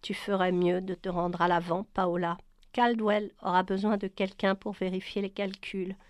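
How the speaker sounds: a hint of clipped command; curt tone. Brian ordering Paola to the front, mildly curt. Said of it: "dit d'un ton sec".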